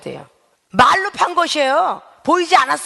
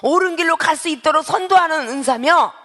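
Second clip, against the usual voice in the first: normal talking voice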